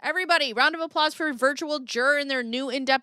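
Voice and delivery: loud, high emcee-style applause call; rousing shout-out. Real, not acted. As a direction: whip up the crowd for a guest. Calls for applause for arriving viewer.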